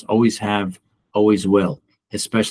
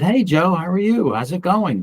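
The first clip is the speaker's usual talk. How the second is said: "Hey, Joe" pitched much higher, a lightly voiced chirpy woman; imitating chirpy colleague; 9 semitones higher than usual. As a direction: play the overly sweet colleague saying hello. Retold colleague greeting him.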